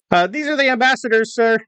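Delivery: high-pitched little private; private to superior. Acted. Private explains himself to mounted officer, high-pitched deferential report. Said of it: "tell the little private to".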